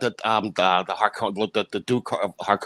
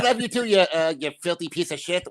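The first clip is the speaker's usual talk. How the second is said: higher, louder mock-friendly cursing; affectionate insult act; 10 semitones higher, 4 dB louder than usual. Co-host mocking terms of endearment, hammed-up affectionate cursing. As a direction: loudly gush the insults like endearments.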